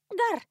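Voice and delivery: put-on high, loud drunken bark "Гар"; a silly drunken growl to push him off. A narrator's reading. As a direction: bark it out at the man. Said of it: "гаркнула она".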